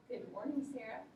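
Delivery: flat, cold good morning; mock unfriendly hello to a student. Shown as a demonstration. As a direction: greet her without any warmth. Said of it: "I didn't use a friendly tone".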